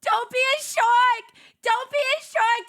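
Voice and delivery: high, loud gleeful shout; excited yell. Real, not acted. Streamer calling the next commercial line, gleeful loud yell. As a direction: belt it out ahead of the ad.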